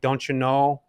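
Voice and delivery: lightly imitated Fargo, North Dakota accent; hint of a folksy North Dakota accent; Midwestern accent. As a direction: quote her with a touch of Midwestern accent. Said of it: "she had this awesome accent".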